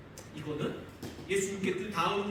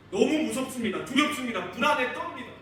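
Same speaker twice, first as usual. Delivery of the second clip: urgent fear; 5 semitones higher, 7 dB louder than usual. Acted. Preacher voicing disciples' fear.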